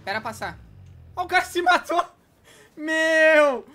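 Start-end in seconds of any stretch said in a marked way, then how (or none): 1.2-3.7 loud disbelieving yell; shocked shout. Real, not acted. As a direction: blurt it out in shock. Teammate sees enemy die.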